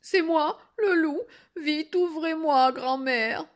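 high, loud call through a door; urgent calling. Acted. Wolf calls to grandmother to open up, urgently. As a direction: call out to be let in at once.

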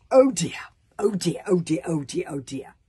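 loud first cry, then falling away; fretting, sinking string of oh dears; dismayed. Acted. Tsar realises the map is wrong, dismayed. Character's dismayed reaction read aloud.

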